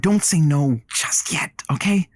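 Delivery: slow whispered plea; whispered coaxing. Acted. Man whispering to his friend to keep an open mind.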